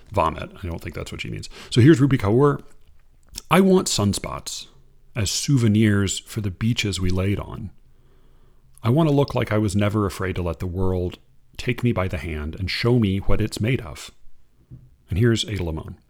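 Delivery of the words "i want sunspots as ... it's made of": unhurried reading of verse; poem reading. Acted. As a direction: read it like a poem to an audience. Reads a Rupi Kaur poem aloud.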